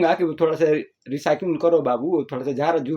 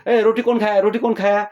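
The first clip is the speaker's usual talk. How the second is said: mother calling out, pitched up; raised-pitch demand to the household; questioning mother; 4 semitones higher than usual. Acted. Mother asks who ate the roti, calling out accusingly. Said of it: "अब वो mummy बोली कि".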